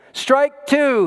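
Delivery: high-pitched yell. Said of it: "he yelled".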